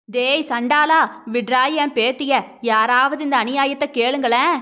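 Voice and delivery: a grandmother's understated cry for help; mild mock wail. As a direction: wail for justice, lightly voiced. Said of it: "என்று அலறிய பாட்டியின்". (லேசாக அலறும் பாட்டி)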